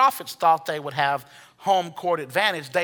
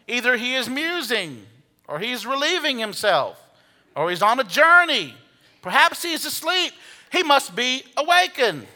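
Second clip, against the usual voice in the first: mocking; 5 semitones higher than usual. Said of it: "Elijah mocked them".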